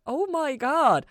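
very slow, high, loud disbelief; slow drawn-out shock; stunned. A narrator's reading. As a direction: let it sink in slowly. Repeats, stunned.

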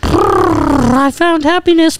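high, slow, dreamy horse voice; bright horse voice. Acted. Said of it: "your voice got brighter".

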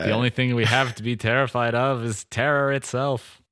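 lightly voiced JFK sounding like Bernie Sanders; JFK impression. Joking about post nine eleven fear, a light JFK impression. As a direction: quote the speech in a half-hearted presidential voice. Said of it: "made J F K sound like Bernie Sanders".

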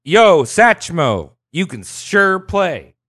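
lightly voiced admiring Brit calling out slowly; retold British fan. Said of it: "a Brit comes up to him and is like".

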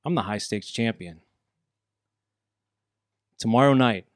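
low, quiet, menacing trash talk; a brooding heel taunting his rival; wrestling promo. Acted. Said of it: "I dare you to cut a promo".

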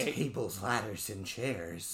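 slow, measured mock announcement; Michael Cole. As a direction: draw out the match name like an announcer. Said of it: "That's how he says it?".

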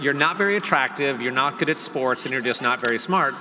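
loud teasing insult list; mock roast. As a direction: rib him loudly, all in fun. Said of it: "like, you know".

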